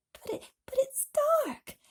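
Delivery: high, frightened wail; crying out. Acted. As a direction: cry out in fear of the dark. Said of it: "cried James".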